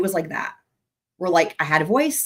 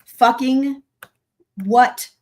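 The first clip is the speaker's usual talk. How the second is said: rising outraged questions, louder and higher; Fucking what, how, who, pitched up in disbelief; shocked disbelief; 7 semitones higher, 6 dB louder, much slower than usual. Real, not acted. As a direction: blurt out stunned, indignant questions. Shocked reaction to played clip.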